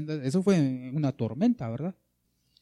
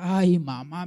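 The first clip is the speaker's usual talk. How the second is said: mock frightened yelp, higher and louder; imagined scared cry; 4 semitones higher, 7 dB louder, much slower than usual. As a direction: imitate a scared call for mama. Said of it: "me imagino que empezaron a gritar".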